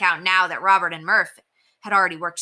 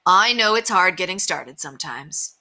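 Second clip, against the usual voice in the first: a touch of kindly understanding; sympathetic. Acted. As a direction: ease him along gently. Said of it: "said Mister Capper sympathetically".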